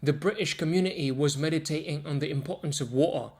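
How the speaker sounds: T sounds swallowed in British, community, water; Cockney-style glottal T; glottal stops. Shown as a demonstration. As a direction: drop the T in "water" with a glottal catch. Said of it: "So instead of British, you say British".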